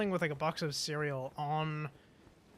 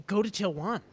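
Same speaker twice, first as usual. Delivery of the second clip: louder, higher, curt and pushy; aggressive command; 4 semitones higher, 5 dB louder than usual. Retold or imitated. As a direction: bark it like an irritated cashier. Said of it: "pointed really aggressively".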